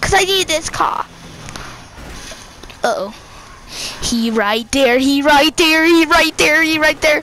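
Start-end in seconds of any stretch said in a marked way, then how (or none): 4.0-7.2 rising alarm. Real, not acted. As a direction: point him out more urgently each time. Spotting the cop, calling out.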